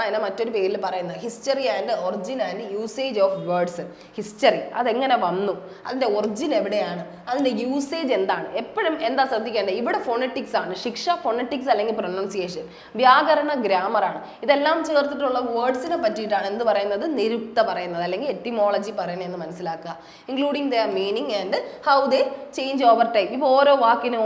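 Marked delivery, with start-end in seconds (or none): 1.2-3.8 English words read slowly, one by one; slow dictation reading. Shown as a demonstration. Teacher reads etymology definition to students, slow dictation. 20.3-23.3 English words read slowly, one by one; slow dictation reading. Shown as a demonstration. Teacher reads etymology definition to students, slow dictation.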